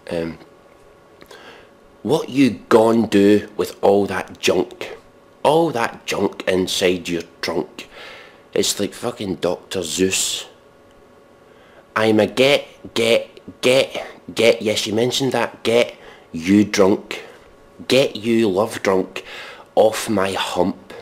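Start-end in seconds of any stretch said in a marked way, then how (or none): 2.0-7.9 mock solemn recital. Shown as a demonstration. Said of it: "here's the first verse of this song". 12.0-14.6 mock solemn recital. Shown as a demonstration. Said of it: "first verse". 15.6-20.9 slow, weighty poetry reading of silly lyrics; slow grave reading of a silly lyric; mock solemn recital. Shown as a demonstration. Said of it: "first verse".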